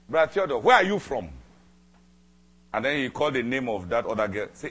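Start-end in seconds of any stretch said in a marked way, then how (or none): 0.1-1.3 high, loud cry of surprise; excited scream. Retold or imitated. The junior sister recognising Brother Theodore on the phone, screaming. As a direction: shriek his name in disbelief. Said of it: "She screamed".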